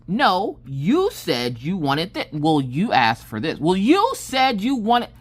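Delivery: imitating a back-and-forth squabble; mock bickering. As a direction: lean on each accusing "you". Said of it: "we fussed for".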